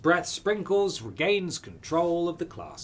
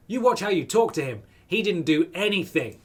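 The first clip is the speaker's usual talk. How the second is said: indignant; 4 semitones higher, 5 dB louder than usual. Acted. Defending the robot.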